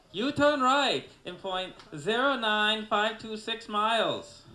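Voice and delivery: high, loud, drawn-out mock Asian accent; shouted Asian-accent GPS parody; caricatured Asian accent. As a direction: scold in an exaggerated Asian accent. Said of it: "they definitely need an Asian version".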